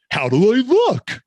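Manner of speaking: high, slow preening question; slow vain question. Retold or imitated. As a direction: ask slowly, fishing for praise. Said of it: "He goes".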